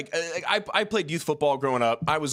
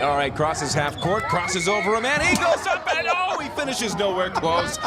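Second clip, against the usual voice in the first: rising excitement then letdown; play-by-play call; 3 semitones higher, slower than usual. Acted. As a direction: call it like a live broadcast.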